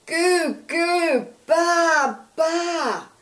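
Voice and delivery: put-on high, loud baby babble, sung out; loud baby singsong. A narrator's reading. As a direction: belt the baby babble out at full volume. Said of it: "Emily sang in her Emily voice".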